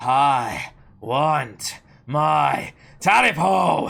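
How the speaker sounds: guttural, menacing monster growl. Like a monster closing in on a terrified hunter in a dark room, repeating its demand louder in a low, guttural growl. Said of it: "The hunter squeaked, his voice catching in his throat with fear".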